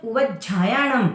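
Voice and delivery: "उवज्जायणम" as u-vaj-jhaa-ya-nam, slowly; "उवज्जायणम" with aspirated jh after a held j; half ja, then jha. Shown as a demonstration. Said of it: "इस तरह से बोलना है".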